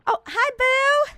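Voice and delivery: gushing hi, far up in pitch; excited greeting. Real, not acted. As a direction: greet a friend you're thrilled to see. Greeting a viewer joining stream.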